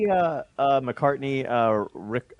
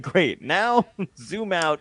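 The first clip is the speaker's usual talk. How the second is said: imitated mission commands; 4 semitones higher, much slower than usual. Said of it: "with your accent and then directives".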